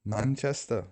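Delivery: softly attempted Manchester accent; British accent. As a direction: try out a Mancunian accent. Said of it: "Terrible accent".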